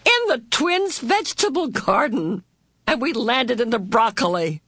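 put-on high, delighted child's exclamation; gleeful amusement. A narrator's reading. Boy amazed at landing in the vegetable garden, gleeful. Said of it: "suddenly he laughed his own sweet".

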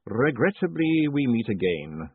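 slow, dry and weary; dry patrician. Acted. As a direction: say it with cool regret. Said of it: "said Lord Vetinari".

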